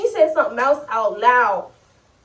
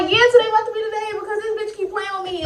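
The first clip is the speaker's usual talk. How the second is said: hyped retold vow; 6 semitones higher, much faster than usual. Retold fight buildup.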